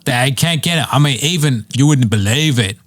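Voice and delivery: mock Australian complaining about hamburgers; lightly drawn Australian bloke; Australian accent. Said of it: "he was like".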